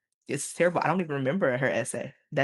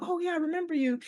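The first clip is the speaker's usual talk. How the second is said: much higher, sing-song "oh, yeah"; retelling a happy reunion, high-pitched; mock delighted greeting. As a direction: greet her in a lifted, playful voice. Retold greeting to former student.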